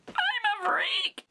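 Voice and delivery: very high and slow; squeaky freak voice. Pretend. Vlogger joking about his own voice, high squeal. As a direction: squeal it out, slowly. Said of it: "That was actually my voice".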